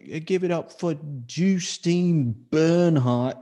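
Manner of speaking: high, drawn-out mock emcee voice; imitated stage introduction. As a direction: slowly announce the act in a put-on voice. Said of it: "he literally was like".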